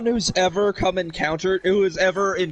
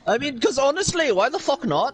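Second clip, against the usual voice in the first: lightly put-on Irish accent; casual mock Irish brogue for laughs; 4 semitones higher than usual. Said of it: "I'm gonna do the rest of this episode in an Irish accent".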